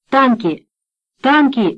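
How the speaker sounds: shouted alarm, rising; storming off shouting. A narrator's reading. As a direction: shout the warning. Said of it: "кричал Марганак".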